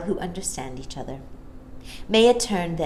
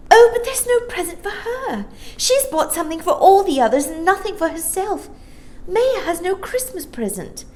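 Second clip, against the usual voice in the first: Jane; 13 semitones higher, 5 dB louder than usual. Acted. Jane's voice in the story.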